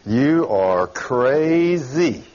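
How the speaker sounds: very slow, drawn-out mocking verdict; mock doctor verdict. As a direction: spell out their scorn word by word. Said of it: "what the doctors think about you".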